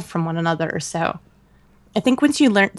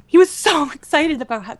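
ordinary delivery

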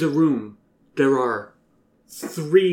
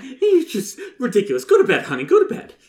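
laughing; 9 semitones higher, much faster than usual. Acted. Mama laughing mid-line.

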